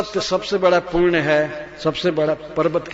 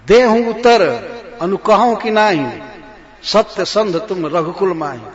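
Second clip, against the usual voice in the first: demanding queen; 2 semitones higher, 6 dB louder than usual. Acted. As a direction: press the king for a reply. Kaikeyi demanding an answer. (जवाब माँगती कैकेयी)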